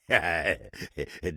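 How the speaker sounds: chuckle. Acted. Table laughs at own predicament.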